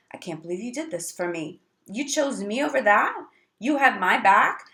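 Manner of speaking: lifts high and loud, overjoyed and grateful; a partner gushing with thanks, voice climbing; grateful excitement. Retold or imitated. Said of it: "because they're like".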